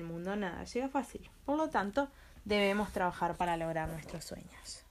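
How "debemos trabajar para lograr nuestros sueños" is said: whispered moral. Acted.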